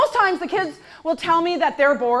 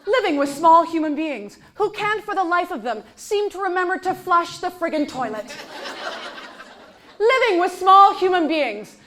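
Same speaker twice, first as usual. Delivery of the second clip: mock PSA announcer. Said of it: "public service announcement".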